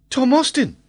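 very high, excited lad calling out; boy's shout. A narrator's reading. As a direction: shout the name in a high boyish voice. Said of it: "the lad shouted".

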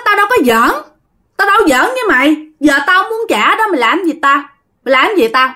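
high-pitched, hateful cockiness; obnoxious. Retold or imitated. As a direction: act out an insufferable refusal. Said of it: "Cái kiểu thấy ghét các bạn ha".

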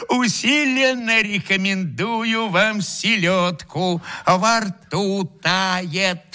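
a touch of strained brightness; mild faked cheerfulness; cheerful exclamation. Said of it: "жизнерадостно воскликнул".

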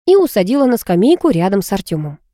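plain reading voice

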